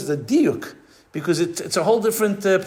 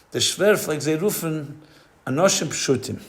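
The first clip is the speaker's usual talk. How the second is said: quiet, calm and even; gently correcting, no heat; calmly; 3 dB quieter than usual. Retold or imitated. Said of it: "the Rebbe very calmly says".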